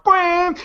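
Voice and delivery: high, sudden honk; imitated air horn blast. Shown as a demonstration. Prankster springing the horn on the worker, sudden imitated blast. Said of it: "you pull out the air horn".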